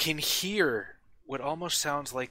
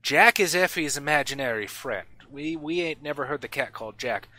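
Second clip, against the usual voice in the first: put-on smith pressing for details, in his accent; Ardmore's accent; 3 semitones higher, 5 dB louder than usual.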